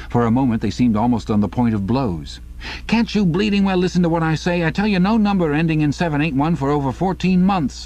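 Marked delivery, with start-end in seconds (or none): 2.9-7.9 heated, violent, very high-pitched arguing tone. Narrator reading two men in a violent altercation, heated arguing. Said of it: "He was a few paces away from them when suddenly the group broke up, and 2 of the men were in a violent altercation".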